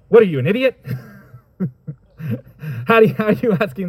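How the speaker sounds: calling him an idiot; exasperated scoff. Retold or imitated. Disciples scornfully asking Jesus, exasperated. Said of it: "it sounds a little bit like".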